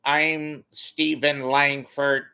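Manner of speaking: slow, self-important sports read; lightly voiced sports anchor; sports anchor impression. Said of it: "And then he's not".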